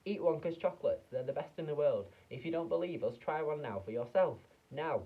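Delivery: loud, high, pushy advert announcer; hammed-up commercial voiceover. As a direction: sell it like a booming TV ad. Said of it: "and a voice will say".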